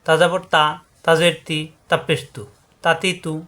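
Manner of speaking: তাতি তু with short, unstretched vowels; brisk recitation drill on তাতি তু; quick short vowels. Shown as a demonstration. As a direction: say তাতি তু without lingering. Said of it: "দ্রুত উচ্চারণ করতে হবে".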